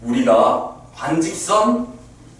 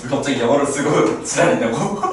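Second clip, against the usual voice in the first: laughing. Real, not acted. Mock student complaint while laughing.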